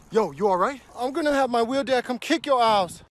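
ordinary talk

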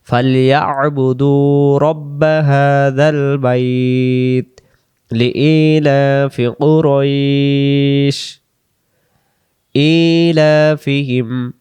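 slow, drawn-out chanted recitation of each syllable; slow Quran recitation. Shown as a demonstration. Teacher reciting slowly for students to repeat.

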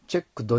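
チェックド ending in a full 'do'; voiced D ending. Shown as a demonstration. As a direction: say チェックド with the D left in. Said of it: "Dを残したらダメ".

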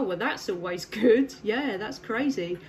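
ordinary talk, nothing marked

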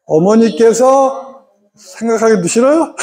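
slow, deliberate start of the formula; slow demo start. Shown as a demonstration. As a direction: draw out 어머니께서 slowly. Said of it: "시작".

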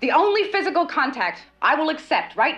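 wife snaps at husband not to touch her; sharp refusal. Acted. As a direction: push him off with the words. Wife rejects husband's embrace.

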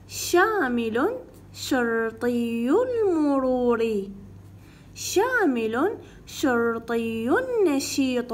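slow, careful lesson reading; reading aloud for children. Shown as a demonstration. Teacher reading the lesson to pupils, slow and careful. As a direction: read each word slowly for young pupils.

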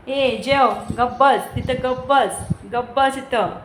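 loud mock ordering-about; imitated bossy scolding. Mother imitating daughter bossing her big brother, loud mock scolding. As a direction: play the little bully, punching each command. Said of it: "आणि मोठ्या भावाला दादागिरी".

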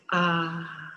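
long, drawn-out sighing ah; exhaled ah. Shown as a demonstration. Yoga teacher showing the letting go of tension, exhaled ah. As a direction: let the breath out on a sustained ah. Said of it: "exhale with the sound of".

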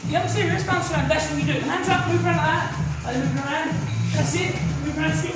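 sharp barked pad-work calls; boxing coach calling combos. Real, not acted.

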